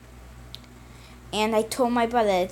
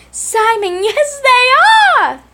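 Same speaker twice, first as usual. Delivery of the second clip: insistent; 13 semitones higher, 9 dB louder than usual. Acted. Brothers arguing about the testers.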